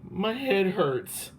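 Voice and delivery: high, slow, pitiful moan. A narrator's reading. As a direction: draw it out like you're sick. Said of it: "she moaned".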